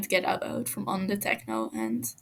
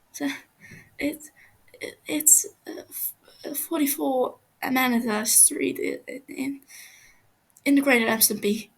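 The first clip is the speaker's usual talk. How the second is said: stuttering, half-whispered then rushed; a hint of a terrified prisoner giving in; broken stammer; 4 semitones higher than usual. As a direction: blurt the address out before you lose your nerve. Captive gives address stammering.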